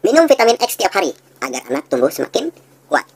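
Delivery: upbeat product pitch; ad read. Shown as a demonstration. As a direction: sell it like a radio ad. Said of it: "Misalnya seperti ini".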